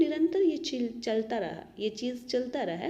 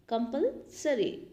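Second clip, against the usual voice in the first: slow; slower than usual. Shown as a demonstration.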